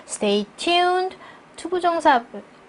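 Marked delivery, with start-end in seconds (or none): 0.1-1.2 "Stay tuned" high, then a break; phrased with pause. Shown as a demonstration. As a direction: lift "tuned" and stop after it. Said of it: "전치사구 앞에서 쉬시고요". ("tuned" 뒤에서 쉬기)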